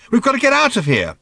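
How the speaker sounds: loud and high, desperate to leave; snapping. A narrator's reading. Ford insisting they get away, snapping. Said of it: "snapped Ford".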